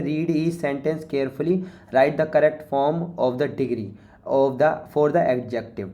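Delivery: slow, deliberate reading of the task; slow read-aloud. Shown as a demonstration. Teacher reading the worksheet instruction slowly to students. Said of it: "reading the task aloud slowly".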